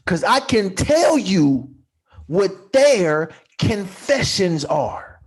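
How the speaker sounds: slow, spaced-out phrases with pauses; nice and slow. Shown as a demonstration. Repeating the confessions on a listener's request, nice and slow. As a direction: draw it out, phrase by phrase. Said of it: "nice and slow".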